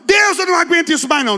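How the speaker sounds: high, strained, fed-up cry to God; a worn-out leader begging God for relief; exasperated plea. Retold or imitated. Preacher acting a tired cell leader, high and strained.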